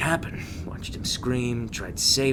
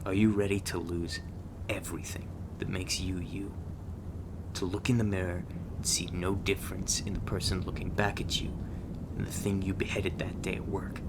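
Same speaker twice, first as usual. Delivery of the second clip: grave quiet warning; 5 dB quieter than usual. Acted. Grave warning after a confession.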